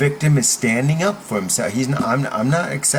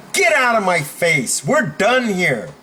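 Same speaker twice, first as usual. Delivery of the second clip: higher, firm dismissal; standing up firmly; 4 semitones higher than usual. Shown as a demonstration. Coach demos cutting off a bully, firm and final. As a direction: shut it down, stretching the last words. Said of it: "that's how you stand up for yourself".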